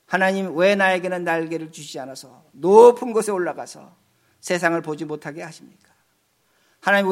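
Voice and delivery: lightly voiced, understated complaining Adam. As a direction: plead and grumble to God like a sulking Adam. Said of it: "달려와서 하나님께 컴플레인합니다".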